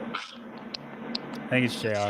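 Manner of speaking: echoey far-off voice. Real, not acted. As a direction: voice echoing in the room. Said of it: "Now we got a crazy echo".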